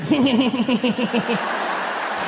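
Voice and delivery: breathy heh-heh chuckle; chuckly Bush giggle. Retold or imitated. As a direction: snicker like Bush. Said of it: "that weird chuckly thing".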